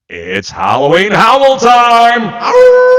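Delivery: loud, slow, howling show announcement; big announcer shout. Acted. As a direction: belt it out like a ringmaster.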